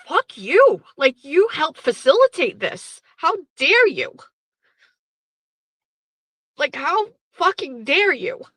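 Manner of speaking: high, loud, indignant retelling; sobbing outrage. Retold or imitated. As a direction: hurl the accusation, pitch soaring on each reproach.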